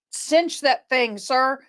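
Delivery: slow, deliberate order; slow command. Retold or imitated. First responder telling the snake holder to grip tighter, slow. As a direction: spell it out slowly to him. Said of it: "And I said".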